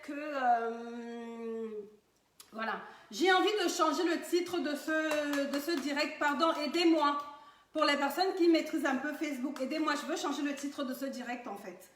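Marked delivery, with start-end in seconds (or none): 3.1-9.9 speaking up. Real, not acted. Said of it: "je vais essayer de parler fort".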